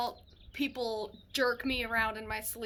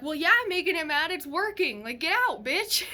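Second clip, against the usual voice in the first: fast, louder and higher, daring it; defiant; 4 semitones higher, 5 dB louder than usual. Retold or imitated. Mother defying the demon scaring her baby, loud and fast. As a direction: taunt the demon and tell it to leave.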